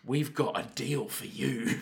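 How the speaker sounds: put-on Australian rogue making an offer; sly, stretched-out mock pitch; Kano. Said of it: "they meet each other and they're like".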